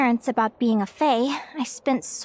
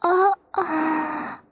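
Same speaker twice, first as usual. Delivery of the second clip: tearful no. Acted. Linnea tearful, answering no.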